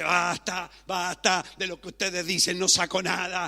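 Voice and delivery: loud, acted exasperation; fed-up protest. Job to his tiresome comforters, fed-up protest. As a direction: cut them off, mock-indignant and loud. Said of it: "Y Job por un momento dice".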